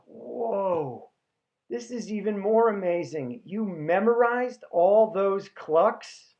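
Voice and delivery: imitating an amazed, impressed bro; drawn-out wonder, slowing on the last phrase; awestruck. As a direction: marvel like a gullible fan. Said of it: "instead of being disappointed".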